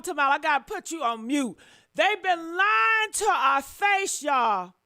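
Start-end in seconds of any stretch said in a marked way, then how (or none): 1.9-4.7 slow, loud, drawn-out outcry; furious shout. Real, not acted. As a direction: hammer every word of it home. Repeats it louder and slower.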